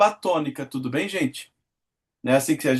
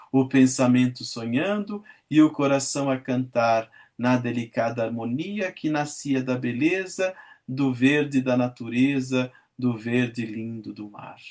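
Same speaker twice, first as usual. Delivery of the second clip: lower, measured verse reading; poem recitation; 4 semitones lower than usual. Acted. Teacher reading Meus Oito Anos to class, recited lyrically. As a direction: recite it like a school poem, savouring each line.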